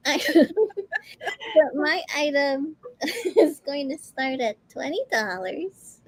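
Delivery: giggling through the words; can't stop laughing mid-sentence. Real, not acted. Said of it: "I can't stop laughing".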